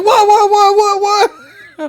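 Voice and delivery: high, loud mimicking whoas; mocking nurse's whoa. Nurse echoing the patient, loud and high. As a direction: throw his yell right back at him. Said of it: "And she just like".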